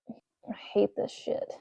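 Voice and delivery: slow, breathy frustrated mutter. Real, not acted. Frozen-fingered mechanic fighting tiny parts, muttering. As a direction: grumble it under your breath. Cold fingers, fiddly screws.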